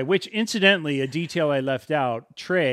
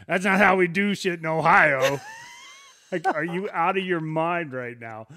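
louder, higher, laughing disbelief; mock incredulous outburst; 4 semitones higher, 4 dB louder than usual. Storyteller mocking an outsider's bar boast, incredulous. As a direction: throw it out like it's insane. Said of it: "I'm not gonna say".

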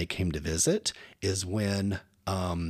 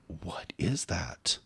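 slow quiet question; 3 semitones lower, 7 dB quieter, much slower than usual. Retold or imitated. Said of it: "So I'm like".

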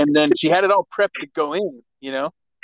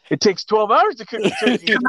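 deadpan; 5 semitones higher than usual. Retold or imitated. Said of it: "he deadpan looked at me and go".

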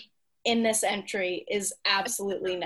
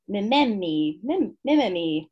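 mimemi said with Italian lilt; Italian-style pronunciation. Real, not acted. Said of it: "say things like they're Italian".

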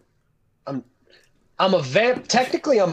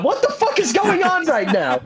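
high, laughing what-the-hell; laughing disbelief; 9 semitones higher than usual. Real, not acted. Stunned by being called stupid.

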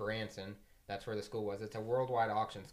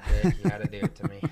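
loud; 13 dB louder, faster than usual. Real, not acted. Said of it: "I wish I could do that".

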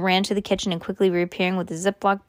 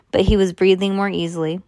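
plain reading voice

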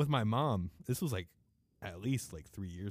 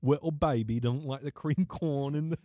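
mock baby talk; 4 semitones higher, 5 dB louder than usual. Teasing friend who dislikes creamed corn.

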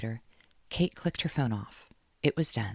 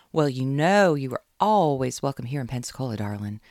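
drawl; 6 dB louder than usual. Acted. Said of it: "Caroline drawled".

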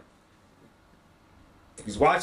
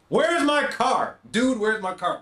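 slow, much higher mock-panicked "where's my car"; movie-quote panic; 6 semitones higher, slower than usual. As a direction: ham up the famous movie line. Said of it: "Literally, I'm living that".

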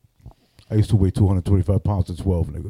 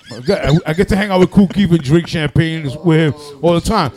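laughing; 7 semitones higher, 4 dB louder than usual. Real, not acted. Laughing while telling.

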